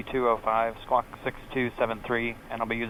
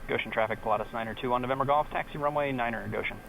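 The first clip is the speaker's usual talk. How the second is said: pilot radio readback; clipped radio call over headset. Real, not acted.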